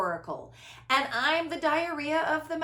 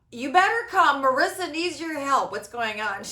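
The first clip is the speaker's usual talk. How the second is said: put-on urgent child call; 2 semitones higher, 6 dB louder than usual. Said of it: "you're like".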